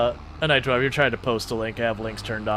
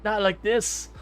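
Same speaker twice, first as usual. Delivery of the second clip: mock despair; 8 semitones higher, 5 dB quieter, much slower than usual. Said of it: "And so he's like".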